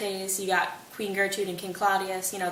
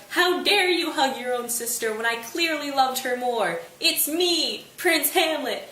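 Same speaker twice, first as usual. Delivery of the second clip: hammed-up indignant yell, higher and louder; mock outraged shout; 5 semitones higher, 4 dB louder, slower than usual. Hamlet bursting from the bush at Laertes, mock outraged yell. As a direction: storm in claiming the spotlight.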